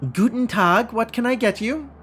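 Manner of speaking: a chipper greeting from a street cook; a touch of a German food seller; friendly vendor. Acted.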